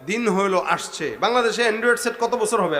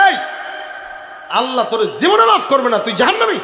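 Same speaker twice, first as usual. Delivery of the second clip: raised, forceful acted call; calling out condemnation; 3 semitones higher, 3 dB louder than usual. Pious man condemns the sinner, calling out. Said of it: "নেককার ডাক দিয়া কয়".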